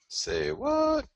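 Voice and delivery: very high, squealed disbelief; squeaky mock surprise. Mocking his own chart call in a squeaky voice. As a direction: squeak it like a startled cartoon.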